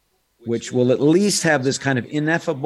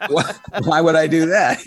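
mock incredulity; 5 semitones higher, 6 dB louder than usual. Incredulous, louder.

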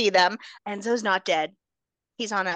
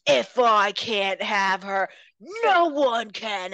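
slow, lightly voiced threat; a hint of villain menace; slower than usual. Villain threatening Amber, slow mock menace. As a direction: draw it out like a soap villain.

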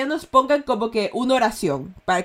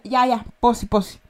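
sarcastic disbelief. Shown as a demonstration. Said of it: "Es como sarcasmo en ecuatoriano".

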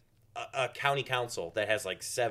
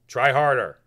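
loud booming push; Tim Misney voice; 2 semitones lower, 10 dB louder, slower than usual. Retold or imitated. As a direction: bark it like a coach. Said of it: "I used to be able to do his voice".

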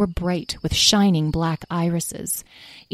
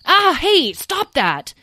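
high, loud yelp easing off; startled protest; 12 semitones higher, 4 dB louder, much slower than usual. Acted. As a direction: react to a sudden poke. Tom swats at poking fairy.

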